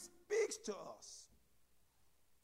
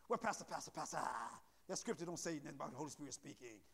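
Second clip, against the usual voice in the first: a quick, much softer mock objection from the pews; doubting church member; 10 semitones lower, 7 dB quieter, faster than usual. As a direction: play the skeptic who questions the pastor. Voicing a doubting congregant.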